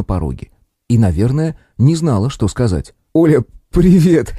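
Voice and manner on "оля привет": greeting slowly, still half laughing; gasping out a hello mid-laugh; through laughter. Acted. Arkady greets Olga while laughing at the aunt, laughing. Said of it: "сквозь смех кое-как поздоровался".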